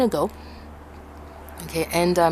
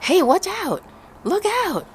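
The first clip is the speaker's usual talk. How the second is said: mock call; 13 semitones higher than usual. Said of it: "the teacher was telling you".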